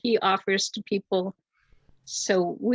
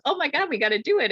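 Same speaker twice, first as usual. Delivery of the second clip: higher, fast, eager retold exclamation; quick, raised imitation of a friend's enthusiasm; excited yes; 6 semitones higher, much faster than usual. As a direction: blurt it out like an instant yes. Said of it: "and he goes".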